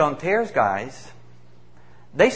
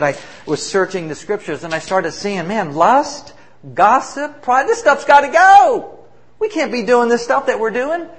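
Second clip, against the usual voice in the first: starts level, then climbs much higher and louder into a passionate cry; retold testimony swelling from steady to impassioned, much higher and louder; rising conviction; 8 semitones higher, 7 dB louder than usual. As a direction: build from calm recall to a fervent outburst over the sins. Convert retelling his conviction.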